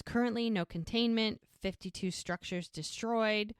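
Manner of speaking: lightly voiced news reporter; measured bulletin read, slowing at the end; a hint of radio news delivery. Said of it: "the reporter on the radio says".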